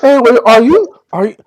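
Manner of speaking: a hint of bubbly Valley Girl; lightly voiced sorority girl gushing. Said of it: "my Valley Girl voice".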